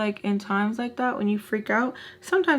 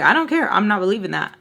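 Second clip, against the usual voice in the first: defiant; 5 dB louder, faster than usual. Retold or imitated. Narrator shutting down Alexa's excuses, loud and defiant. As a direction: refuse to hear it, raising your voice.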